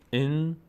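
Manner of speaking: این with the n held in the nose; held nasal nun. Shown as a demonstration. Teacher showing ghunnah, nasal held n. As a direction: hum briefly on the final n of این.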